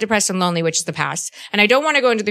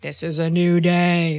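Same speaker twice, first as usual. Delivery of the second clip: slow, calm guru imitation; meditation voice; slower than usual. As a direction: mimic a meditation teacher, slowly. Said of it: "That's how he talks in his meditation".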